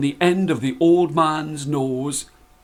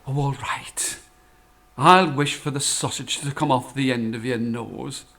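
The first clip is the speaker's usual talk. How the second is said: softer, lower, kind; wife smiling as she relents; gentle agreement; 3 semitones lower, 5 dB quieter than usual. Acted. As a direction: give in tenderly. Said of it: "smiled and said".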